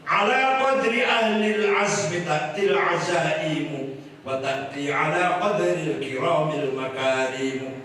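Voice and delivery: slow, solemn Arabic recitation; poem recital. Acted. Kiai reciting classical Arabic poetry to the crowd, slow solemn. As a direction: intone the verse slowly.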